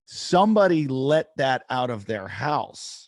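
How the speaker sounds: acting out astonishment, loudly; retold incredulity. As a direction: stretch it out as if you can't believe it. Retold incredulous reaction to python.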